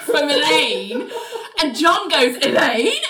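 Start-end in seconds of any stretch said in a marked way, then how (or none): 2.4-3.0 mock-startled questioning name, pitch raised; puzzled calling. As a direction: call the name as a rising question. John startled, calls out questioningly.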